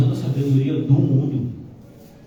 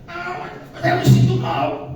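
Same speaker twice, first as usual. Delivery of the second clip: mock whiny churchgoer; 13 semitones higher, slower than usual. Mocking guilty churchgoer.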